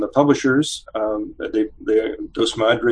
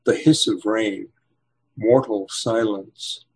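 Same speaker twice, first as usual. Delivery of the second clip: slow, measured poetry reading with long pauses; poem reading; slower than usual. Acted. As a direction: read it like a solemn poem, letting silences hang. Poet reads his own poem.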